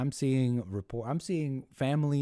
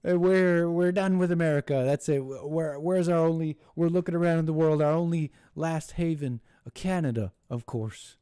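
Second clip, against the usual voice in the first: higher, louder mock whine; higher, louder mocking liberal voice; mock protester; 6 semitones higher, 4 dB louder than usual. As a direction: ham up a dramatic complainer. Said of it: "they say".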